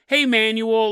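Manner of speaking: "Manuel" called out as a greeting; calling a name. Shown as a demonstration. Host showing what the name is not, mock greeting to Manuel. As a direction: hail someone with "Hey, Manuel". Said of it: "It's not manual like".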